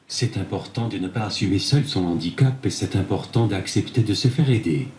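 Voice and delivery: synthetic tablet voice; text-to-speech reading. Real, not acted. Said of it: "c'est grâce à cette tablette". (voix de synthèse)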